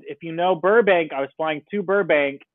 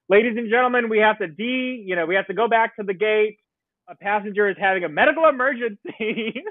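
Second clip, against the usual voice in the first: raised captain voice over speaker; pilot announcement; 5 semitones higher than usual. Retold or imitated. Captain on the loudspeaker.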